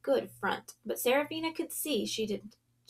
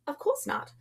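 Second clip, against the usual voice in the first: much higher, startled and astonished; 12 semitones higher than usual. A narrator's reading. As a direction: jump up in pitch, caught off guard. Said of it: "the girl said in astonishment".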